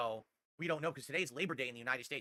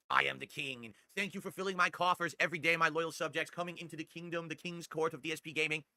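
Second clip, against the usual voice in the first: mock king voice. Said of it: "when I talk like that".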